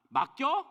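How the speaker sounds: 맡겨 pushed out high and loud; stress on 맡겨. Real, not acted. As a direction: hit 맡겨 hard, like the point of the sermon.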